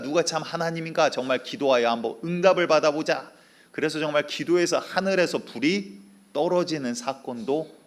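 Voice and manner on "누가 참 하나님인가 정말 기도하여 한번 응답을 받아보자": raised, challenging prophet voice; a bold prophet daring his rivals; Elijah's challenge. Acted. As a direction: call them out to a contest.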